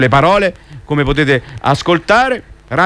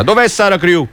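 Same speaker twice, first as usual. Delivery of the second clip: angry shout; 5 semitones higher than usual. Acted. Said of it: "gridò la voce deformata dall'ira".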